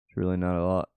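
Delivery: mock casual shrug, lightly sarcastic; downplay it with a wink; sarcastic understatement. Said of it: "Just kidding".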